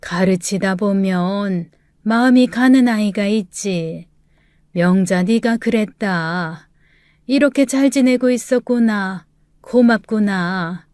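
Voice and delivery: remember a beloved pupil with effort; frail old teacher. Acted. Grandmother continues.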